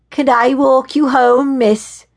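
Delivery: high, slow, teasing lilt; sing-song. A narrator's reading. Young man grabbing the woman's arm, sing-song tone. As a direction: chant it playfully, drawn out and loud. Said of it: "he said in a sing-song tone".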